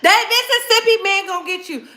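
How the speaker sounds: mock wail. Mock wailing warning, repeated.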